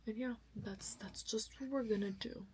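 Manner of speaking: soft tired whisper. Real, not acted. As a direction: whisper it, winding down. Quiet tired end of vlog.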